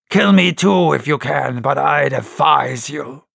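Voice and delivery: lightly voiced sailor, defiant; heroic defiance. Tom defying Silver like a hero. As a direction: stand up to him. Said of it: "Tom flashed out like a hero".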